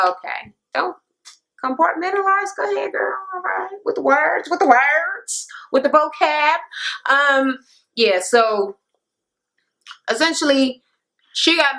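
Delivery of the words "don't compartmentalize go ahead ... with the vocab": teasing whisper. Real, not acted. Teasing aside to cast member.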